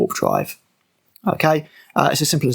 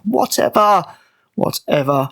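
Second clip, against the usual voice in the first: exasperated whatever; slower than usual. Real, not acted. Repeated dismissive whatever.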